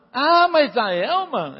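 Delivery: loud, slow skeptical question; hammed-up disbelief; mock objection. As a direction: play the doubter scoffing at Elma. Voicing a doubtful listener.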